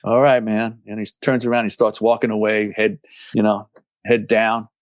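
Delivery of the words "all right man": a touch of Oklahoma drawl; lightly dejected Oklahoma drawl; dejected Southern drawl. Retold or imitated. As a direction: give in with a mildly downcast Southern drawl. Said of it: "he gets all dejected in his Southern drawl".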